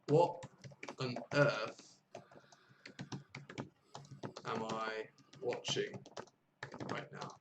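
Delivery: broken into short chunks with long pauses; slow word-by-word repetition. Shown as a demonstration. Teacher repeating the friend's line for learners, slow chunked dictation. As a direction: repeat it slowly for learners, pausing between phrases. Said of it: "She said".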